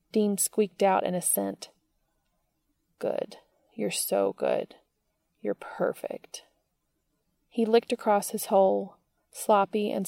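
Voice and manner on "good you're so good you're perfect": slow tender praise. Acted. Cass praising slowly.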